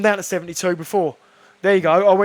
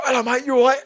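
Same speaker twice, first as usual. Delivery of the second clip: breezy brush-off; 8 semitones higher than usual. Retold or imitated. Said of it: "and I just go".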